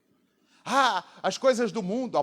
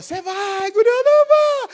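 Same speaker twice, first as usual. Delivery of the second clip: mother threatening; 11 dB louder than usual. Retold or imitated. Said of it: "minha mãe falava".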